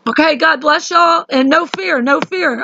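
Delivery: fighting back tears while saying goodbye; crying. Real, not acted. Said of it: "I'm crying just because I'm crying".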